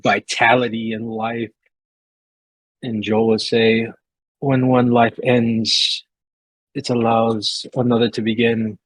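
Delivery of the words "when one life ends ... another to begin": a hint of Logos's accent on a solemn line. Joel speaks a solemn blessing, in Logos's accent. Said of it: "I'm using Logos's accent".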